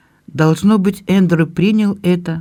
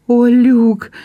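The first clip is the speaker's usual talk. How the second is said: high, louder sob of his name; sobbing cry; 7 semitones higher, 4 dB louder than usual. Acted. Belinda still weeping, calling to her brother. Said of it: "всхлипывала Белинда".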